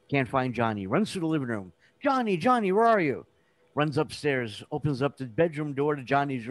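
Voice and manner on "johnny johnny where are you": high mock searching call; acted sing-out for a missing child. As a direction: imitate a parent calling through the house. Dad keeps searching for Johnny.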